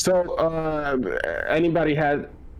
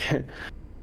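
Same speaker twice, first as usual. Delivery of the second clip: brief, soft breathy chuckle; short laugh; 9 dB quieter than usual. Real, not acted. Trying to explain himself to the others, short soft laugh. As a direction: let out a small quiet laugh.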